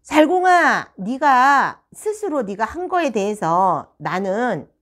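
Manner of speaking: retold scolding, loud name then drawn-out words; teacher losing patience, emphatic; exasperated outburst. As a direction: burst out at the pupil, then spell it out. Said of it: "급기야 제가 빵 터진 거죠".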